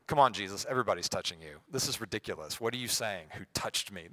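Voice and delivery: mildly exasperated sarcasm; sarcastic. Acted. Disciples chiding Jesus, lightly sarcastic. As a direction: scoff lightly at an absurd question. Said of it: "and they're sarcastic".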